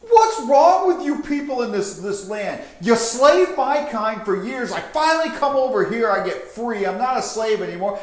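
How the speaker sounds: very high, loud, frantic screeching; shrieking panicked necromancer. Acted. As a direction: shriek in total disbelief at the loss. Necromancer rants at the locals.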